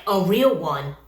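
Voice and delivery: ordinary talk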